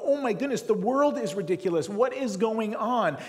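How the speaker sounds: high, loud, slowing at the end; exasperated disbelief. Retold or imitated. Reading the news, loud exasperated disbelief. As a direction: throw up your hands at the news. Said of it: "you read the news and you go".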